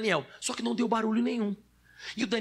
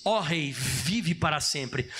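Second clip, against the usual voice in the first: joyful Daniel; 5 semitones lower, much slower than usual. Acted.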